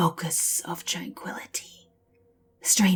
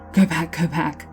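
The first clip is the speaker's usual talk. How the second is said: urgent shout; 5 dB louder than usual. Acted. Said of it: "he says".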